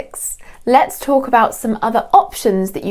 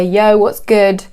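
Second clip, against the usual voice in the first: cool casual greeting; 3 dB louder, slower than usual. Shown as a demonstration. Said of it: "just stand up and say".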